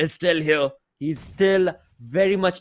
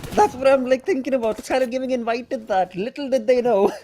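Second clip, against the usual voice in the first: excited; 7 semitones higher, 3 dB louder than usual. Real, not acted. Hyped reaction to squad wipe.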